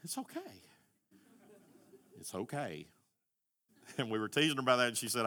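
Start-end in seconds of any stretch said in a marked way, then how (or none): 0.0-0.4 "okay" soft and high with a rising end; self-soothing child. Retold or imitated. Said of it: "She'd sit there and she'd go". 2.2-2.9 "okay" soft and low with a falling end; self-soothing child. Retold or imitated. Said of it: "She'd sit there and she'd go".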